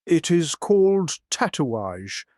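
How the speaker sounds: put-on slow, smooth French-accented English; liquid French accent. A narrator's reading. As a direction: let the French accent flow slowly. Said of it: "he replied in a liquid French accent".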